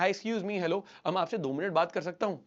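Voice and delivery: tentative, questioning opener; unsure request for permission; seeking rapport. Shown as a demonstration. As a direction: ask deferentially for a moment. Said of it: "पहले example मैंने जो दिया था".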